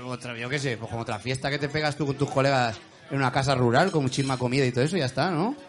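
talking with mouth full; chewing while talking. Real, not acted. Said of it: "estás hablando con la boca llena".

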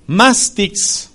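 mastix stressed on its first syllable, MAS. Shown as a demonstration. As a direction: lean on the A of mastix. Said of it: "con acento en la A". (mastix con acento en la A)

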